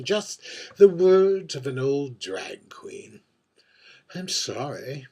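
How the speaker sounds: arch, world-weary drag queen holding court at a bar; lightly voiced aging diva, wry and wistful over her gin; mature drag queen. A mature drag queen at the bar confides in the invisible bartender, arch and wistful.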